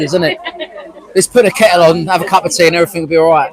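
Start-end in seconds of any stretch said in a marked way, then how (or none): 1.1-3.5 EastEnders soap line. Retold or imitated. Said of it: "like an episode out of EastEnders".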